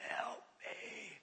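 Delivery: tiny, very soft strangled squeak. Retold or imitated. Possessed young man begging the pastor, squeaked out. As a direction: squeeze it out with almost no voice. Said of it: "he squeaks out".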